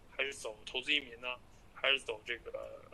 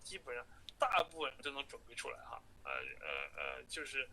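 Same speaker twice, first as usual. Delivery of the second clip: phone call; 3 dB quieter than usual. Real, not acted. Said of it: "下一个录音是我在最后跟他通话的时候".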